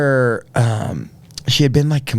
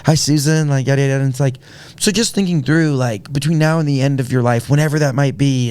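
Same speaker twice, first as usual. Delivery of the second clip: higher, overly sweet counselor voice; a mild put-on higher counselor voice; imitating the counselor; 4 semitones higher than usual. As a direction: lightly play the gentle hospital counselor. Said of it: "this counselor comes in and it's like".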